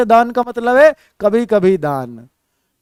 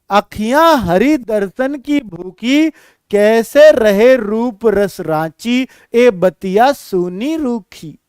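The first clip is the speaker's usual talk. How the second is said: slow, drawn-out devotional recital; slow recitation; slower than usual. Shown as a demonstration. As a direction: linger on each word of the verse. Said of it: "देखो जरा". (धीमा भक्ति पाठ)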